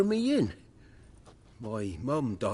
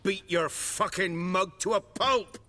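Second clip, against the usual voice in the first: angry threat; 5 semitones higher than usual. Acted. Prisoner threatens the witcher.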